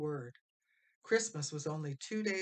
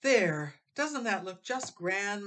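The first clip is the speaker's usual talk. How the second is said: cooed; 4 semitones higher, 7 dB louder, slower than usual. A narrator's reading. Mother admiring the mantel, cooing slowly. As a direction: admire it fondly. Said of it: "Missus Stoll cooed".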